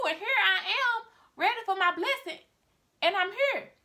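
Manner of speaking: an eager son expecting his blessing; eager Esau. Acted. Esau eager, then confused.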